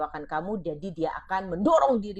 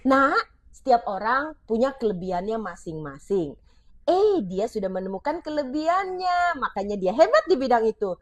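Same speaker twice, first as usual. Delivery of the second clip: encouraging parent. Shown as a demonstration. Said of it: "Yuk ganti dengan seperti ini".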